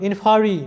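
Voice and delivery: ইনফারি with "fa" in the middle, ending in ই; pronunciation demo. Shown as a demonstration. Teacher models ইনফারি for students, pronunciation demo. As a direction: say ইনফারি carefully as in-fa-ri. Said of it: "এরকম হবে".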